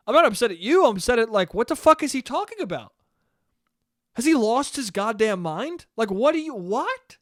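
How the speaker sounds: mildly worked-up retold rant; exasperated, pitch climbing into disbelief; getting mad. Son telling his mom who he's upset at, exasperated. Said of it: "I was getting mad".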